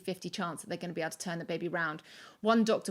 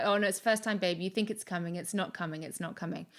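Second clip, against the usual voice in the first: dismissive doula. Retold or imitated. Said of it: "that thing that they always do".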